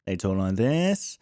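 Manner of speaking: a mock news reporter read. Shown as a demonstration. Mocking how news reporters talk, slow low anchor voice. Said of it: "news reporters still speak".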